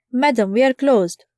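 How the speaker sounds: lightly voiced Asian accent, polite; a hint of an Asian accent, courteous. Waiter turning away a hungry customer, faint Asian accent. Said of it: "the Asian waiter with an accent said".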